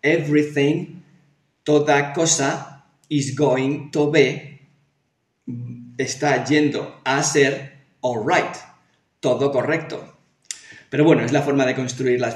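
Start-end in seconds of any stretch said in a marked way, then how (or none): 0.0-10.2 slow literal translation. Shown as a demonstration. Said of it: "la traducción literal sería".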